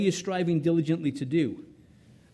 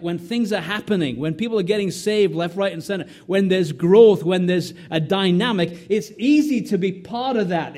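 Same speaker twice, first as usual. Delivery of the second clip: rising loud, faster crescendo about revival; building preacher's fervor; 3 semitones higher, 6 dB louder than usual. Acted. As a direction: climb to a loud, eager peak.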